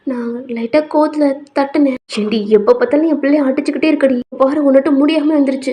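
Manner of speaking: mildly heated domestic argument; parents quarrelling. Acted. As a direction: bicker over the sick child. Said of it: "கொஞ்சம் சண்டை போய்கிட்டு இருக்கு".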